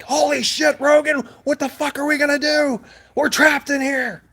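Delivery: retold panic, shouted high; panicked shout. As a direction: yell at your friend that you're trapped. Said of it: "did I not panic my ass off".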